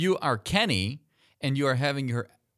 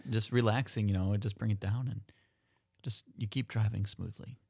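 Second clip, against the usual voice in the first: golf announcer; 5 dB quieter than usual. Acted. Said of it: "golf, uh, announcer voices".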